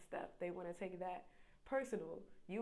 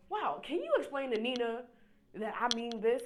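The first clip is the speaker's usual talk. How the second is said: louder, higher pleading question; mock exasperated plea; 5 semitones higher, 11 dB louder than usual. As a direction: pretend to beg the go-between, louder. Imagined exchange via translator.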